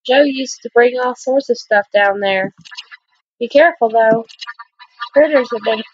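put-on girl character voice.

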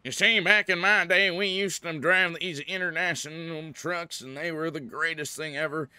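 loud, high auctioneer patter. Pretend. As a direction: belt it out like a fast-talking auctioneer. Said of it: "bust out the, the auctioneer voice".

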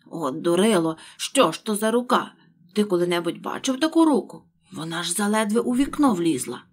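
loud, exasperated rabbit; angry scolding. Acted. Rabbit scolding Pat about the arm, loud angry. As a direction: berate the fool, loud.

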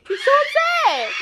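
high, laughing shout. Real, not acted. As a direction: laugh it out at the upset dog. Laughing at upset dog.

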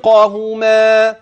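يرهقهما slow with the dual هما clear; dual ending. Shown as a demonstration. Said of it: "هكذا".

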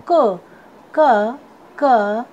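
क as a lone "kuh", firmly repeated; phonic letter sound. Shown as a demonstration. Teacher showing students the sound of C, phonic letter sound. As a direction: sound out क as C starts "cat". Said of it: "सी का sound होता है".

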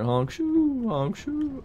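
high mock snore sound "honk shoe"; snoring. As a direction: imitate a cartoon snore, squeaky and high. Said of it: "this man's honk shoeing over here".

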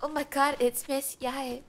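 light up at spotting a favorite character; excited. Real, not acted. Streamer spotting Miss Yae in the game, excited.

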